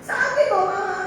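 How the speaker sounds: put-on high whining child's protest; child's cry of pain. Mother imitates her son protesting the spanking, high whine. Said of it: "mau lagi, teriak".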